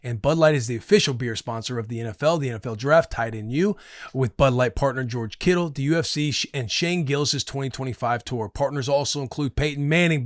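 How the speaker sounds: podcast host's smooth live ad read; sponsor ad read. Real, not acted. Host reads beer sponsor before the interview, ad read. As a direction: read the sponsor copy straight through.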